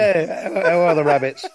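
words spilling out through laughter; laughing while talking. Real, not acted. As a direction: speak while cracking up. Both laughing at joke.

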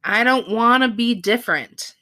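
lightly acted insistence, imitating him; quoting a castaway. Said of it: "quoting Andy".

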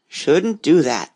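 mormorato lento e basso; muttering frog. Acted. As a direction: lo ripete borbottando piano. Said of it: "the frog muttered".

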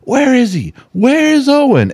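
put-on high, eager child calling out; a grandpa piping up as the little girl; imitating granddaughter. Grandpa mimicking granddaughter's morning call, high and eager.

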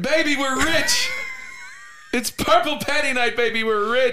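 high, slow shouted Irish brogue; hammed-up Irish celebration; mock Irish shout. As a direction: crow it like a rich Irish fighter. Quoting McGregor catchphrase.

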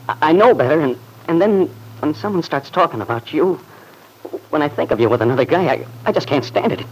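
anguished outburst. Acted. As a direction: let the jealousy burst out of you.

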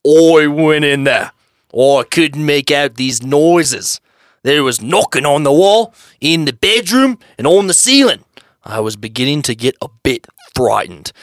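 slow, deliberate big man voice; lightly voiced burly man; Vic impression. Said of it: "I don't have a really good voice for Vic".

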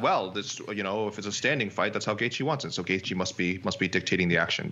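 a hint of a deliberating judge; judge impression. Podcaster voicing the judges' reasoning, light judge impression. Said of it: "I like your impression of a judge".

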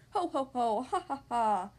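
mock double storybook laugh; acted laughing. A narrator's reading. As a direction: read out two pigs' mock laughs. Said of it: "laughed the two lazy little pigs".

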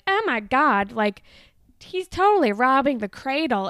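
put-on scandalized gossip; shitty friends. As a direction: imitate catty friends gossiping loudly. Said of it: "being assholes about him".

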